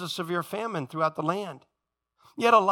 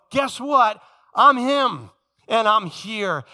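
emphatic proclamation; 2 semitones higher, 6 dB louder, much slower than usual. Acted. Jesus announcing himself to the synagogue, bold proclamation. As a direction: declare it boldly to the room.

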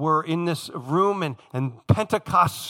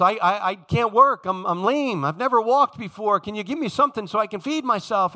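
begging lame man. Retold or imitated. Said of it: "he's begging for alms".

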